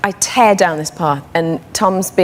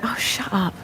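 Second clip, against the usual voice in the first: tag; 10 dB quieter than usual. Retold or imitated. Her dismissive thought retold.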